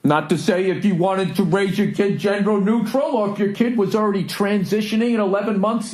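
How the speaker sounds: high, over-careful imitation of an older clerk; covering his tracks. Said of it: "Covering his tracks".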